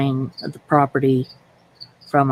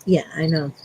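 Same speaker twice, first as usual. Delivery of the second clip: teary laugh; 4 semitones higher than usual. Real, not acted. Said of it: "I can tell that you're starting to cry".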